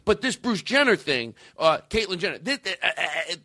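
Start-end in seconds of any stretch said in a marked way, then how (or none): 2.4-3.4 high-pitched mock disbelief; incredulous objector. Mimicking people who can't accept the Jenner news, incredulous. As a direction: imitate a stammering, scandalized objector. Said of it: "here was their attitude".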